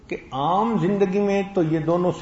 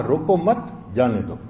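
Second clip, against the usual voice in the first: روکو مت joined and raised, then جانے دو falling; pause after مت; 3 semitones lower than usual. Shown as a demonstration. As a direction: run روکو into مت, break, then drop on جانے دو. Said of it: "صرف انداز کے بدلنے سے مفہوم بدل گیا".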